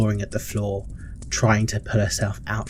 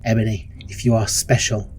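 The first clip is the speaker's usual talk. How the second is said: impassioned stern matron; 3 dB louder than usual. Acted. Matron defends her harsh rule to Ebony, loud and fervent. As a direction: defend yourself with rising force.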